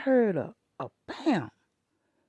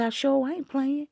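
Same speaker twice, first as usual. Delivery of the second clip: stern scolding; 4 semitones higher than usual. Retold or imitated. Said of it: "I said".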